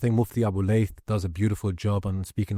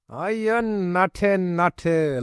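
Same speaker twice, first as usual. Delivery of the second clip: high, bright shout-out call; excited hype; 9 semitones higher, much slower than usual. Real, not acted. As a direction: hype the crowd up.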